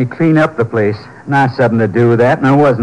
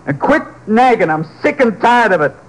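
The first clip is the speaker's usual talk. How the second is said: irritated, higher-pitched outburst at his wife; angry; 5 semitones higher than usual. Acted. Husband lashing out at his wife, irritated and raised in pitch. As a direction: snap back, fed up with her nagging.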